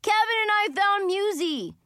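breathless from running, loud and high; panting after a sprint; out of breath. A narrator's reading. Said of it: "panting like he'd just run".

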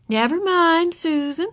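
reassuring kindergarten teacher; comforting teacher. A narrator's reading. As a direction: console an upset child. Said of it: "said Miss Binny".

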